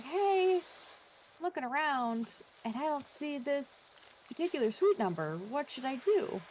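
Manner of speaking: bright, high, polite asking. Retold or imitated.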